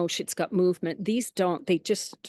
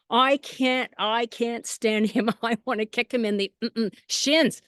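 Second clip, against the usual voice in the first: cheeky dog voice; 2 semitones higher than usual. Retold or imitated. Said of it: "that was her personality".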